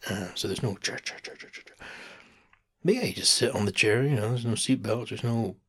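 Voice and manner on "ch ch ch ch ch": breathy unvoiced ch-ch-ch chugging; choo-choo sound. Shown as a demonstration. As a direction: chug softly like a steam train. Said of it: "It's not a steam train".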